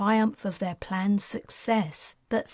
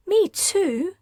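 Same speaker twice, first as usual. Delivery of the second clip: put-on higher and louder, a girl's indignant protest; 10 semitones higher, 5 dB louder than usual. A narrator's reading. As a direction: jump in, don't leave me out. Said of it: "Kayla protested".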